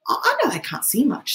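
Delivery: half-whispered, unsure. Acted. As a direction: breathe it out hesitantly. Piggy voiced, unsure.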